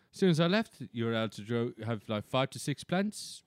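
put-on lightly done South African accent; a hint of a South African accent. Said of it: "I was doing the accent".

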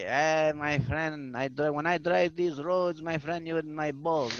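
slow, drawn-out impression of a father; imitated dad. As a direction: lightly voice an old-country dad, dragging the words. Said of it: "He's like".

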